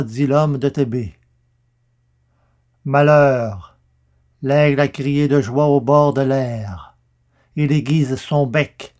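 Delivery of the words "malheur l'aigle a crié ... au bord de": Malheur cried out loud and long; prophetic cry. Acted. Prophet cursing the king, a loud cry of woe. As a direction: hurl Malheur like a curse.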